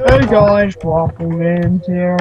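slow, lightly put-on intro voice; a hint of a mocking YouTuber intro; Waffle Games imitation. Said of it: "That is my imitation of Waffle Games".

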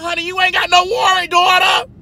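hammed-up sassy comeback from inside the house; sassy clapback. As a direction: talk back to the cop with attitude. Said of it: "I was like".

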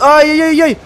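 high panicked ay-yay-yay; scared horror game streamer. Real, not acted. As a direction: panic as monsters close in. Swarmed by monsters in game.

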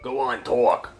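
hushed menacing whisper; whispered threat. Acted. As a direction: hiss it under your breath. Kidnapper hisses at hostage.

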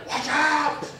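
high, loud sudden warning; warning shout. Pretend. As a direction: yell to stop a child at the edge. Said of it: "I should be going".

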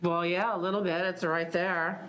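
slurred speech. Real, not acted. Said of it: "You're slurring your words".

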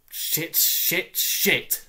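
under-the-breath swearing; whispered curse. Acted. Teen reading bad exam grades, whispered swearing. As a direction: hiss it to yourself in dismay.

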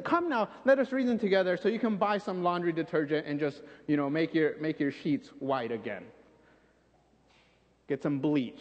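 mock misreading. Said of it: "Notice what it doesn't say".

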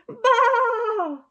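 high, loud lamb bleat; frightened lamb calling out high; lamb bleating loudly. Acted. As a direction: bleat out like a lost little lamb. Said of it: "he cried".

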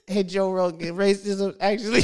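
Joe Rogan impression. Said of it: "He goes".

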